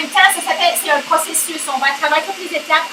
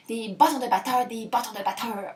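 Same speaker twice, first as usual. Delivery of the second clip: "bâtons de batteurs" repeated softer and quicker, fading; playing with sounds; 5 semitones lower, 10 dB quieter than usual. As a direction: toy with "bâtons de batteurs", letting it fade. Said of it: "j'aime ça, les jeux de mots puis les sons". (« bâtons de batteurs » répété plus bas, en s'éteignant)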